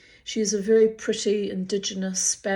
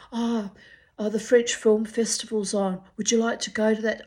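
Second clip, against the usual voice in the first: imitating the drunk suitor; 3 semitones higher, 4 dB louder than usual. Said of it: "he'd turn up at the casino".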